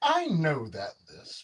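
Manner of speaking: sugary, sweet tone, smooth like honey. A game master voices someone speaking from behind a character, sweet, honeyed voice. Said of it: "a little bit sweeter, a bit like honey".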